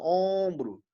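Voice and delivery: Ombro with a held nasal first vowel; nasalised vowel. Shown as a demonstration. Teacher illustrating nasalisation, long nasal OM in Ombro. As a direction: hum through the OM of Ombro. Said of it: "E a nasalização".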